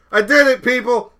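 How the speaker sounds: real burst of triumph; excited cheer. Real, not acted. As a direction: celebrate a small win out loud. Triumphant about finally having an outro.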